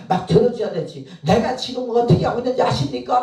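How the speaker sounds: high, loud mock protest; retold shouting. Missionary yelling at God in prayer, imitated shouted protest. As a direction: imitate someone yelling a grievance upward. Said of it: "막 소리를 지면서".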